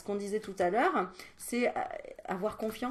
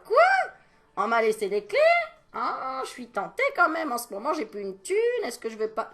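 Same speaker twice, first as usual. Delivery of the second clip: mock tempted stranger; 7 semitones higher, 7 dB louder than usual.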